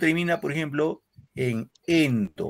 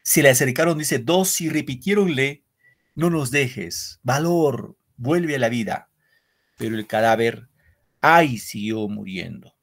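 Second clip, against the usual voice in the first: measured, solemn reading of verse; poem recital. Acted. Teacher reading a war poem to the class, solemn recital.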